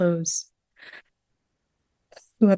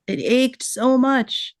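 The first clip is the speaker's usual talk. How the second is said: aching grief; 5 semitones higher, much slower than usual. Real, not acted. Speaks of Umm Musa's grief.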